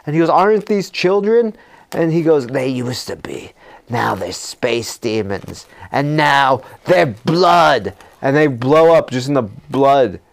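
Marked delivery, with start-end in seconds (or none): 0.3-1.6 higher-pitched mock dismay; shocked question. Hero questioning the shooting of children, mock shocked. 2.5-7.9 slow, ominous movie line; grim witch. Retold or imitated. Witch revealing the space demons, grimly drawn out.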